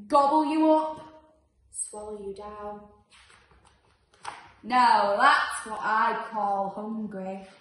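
menacing ravenous beast. Acted. Ravenous beast threatening to eat every animal, loud and greedy. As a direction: gloat over the feast. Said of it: "said the ravenous beast".

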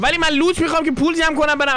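sudden high pleading squeak; mock pleading. Streamer bargaining jokingly with Ashley, high squeak. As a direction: squeak it like a cheeky plea.

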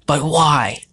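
high, anguished yell. A narrator's reading. Sam to his tormentor, yelling in protest. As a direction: cry it out, high and loud. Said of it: "Sam yelled".

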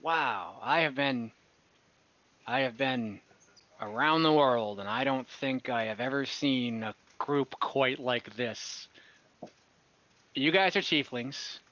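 lightly voiced friendly merchant; chatty trader greeting the party, slightly slow; merchant NPC.

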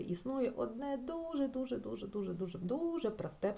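grinning emphasis on how easy; emphatic repetition. Shown as a demonstration. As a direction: pile up the дуже to stress how simple. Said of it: "repeats дуже for emphasis".

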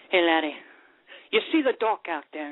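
lilting Scottish brogue as the barman; Scottish pub accent, rolled and proud. Acted. Joke teller voicing a bitter Scottish barman in accent. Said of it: "we definitely applaud you on your accent".

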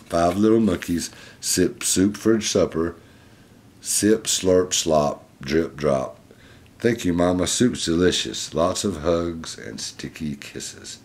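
lively, clearly projected picture-book reading; reading to children. Acted. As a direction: read it out to a little listener. Reads picture book aloud.

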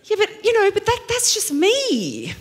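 mock flustered self-excuse; sheepish excuse. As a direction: laugh it off defensively. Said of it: "And I'm like".

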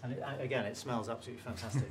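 talking while chewing; mouth full. Real, not acted. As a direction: speak through a mouthful of cake. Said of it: "Never speak with my mouth full".

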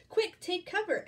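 high, loud warning cry; panicked storybook turkey; Turkey Lurkey gobbling. Acted. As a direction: yell a sudden warning. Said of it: "gobbled Turkey Lurkey".

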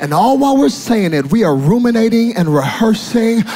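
driving, emphatic sermon delivery; rolling preacher's build; full-force preaching. Real, not acted. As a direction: pile up the phrases without letting go.

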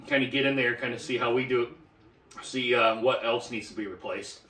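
talking while chewing gum. Real, not acted. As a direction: gum in the mouth. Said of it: "I got some gum in my mouth now".

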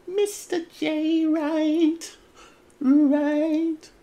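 high, loud, drawn-out ringing name call; ring announcer. Pretend. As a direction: belt it out and hold the notes. Hammed-up echoing announcement of his name.

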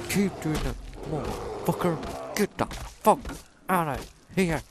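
high, loud furious shouting; raging at an enemy; angry yell. Real, not acted. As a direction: roar them away. Yelling at enemy.

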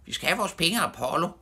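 high, fast, loud demand; high-pitched angry demand; screaming. A narrator's reading. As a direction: yell it out in a rush. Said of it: "skreg Knalle".

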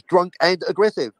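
"and" given extra weight; stress on AND. Shown as a demonstration. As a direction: lean on "and" between the two words. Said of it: "Operative word".

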